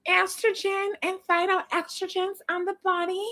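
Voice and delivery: mock soft-spoken girl vlogger voice; affected soft-voiced girl introducing her video. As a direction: put on a sweet, dainty girly voice. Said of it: "Or she one of these girls?".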